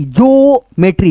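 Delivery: slow, drawn-out ज्योमेट्री, sounded jyo-me-tree; syllable by syllable. Shown as a demonstration. Teacher drilling pupils slowly on ज्योमेट्री. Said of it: "ठीक है, ऐसे करके।".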